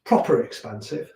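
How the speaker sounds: lightly put-on Leicester accent. Shown as a demonstration. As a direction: lean into a Leicester lilt on "proper". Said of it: "I do like to use the word proper".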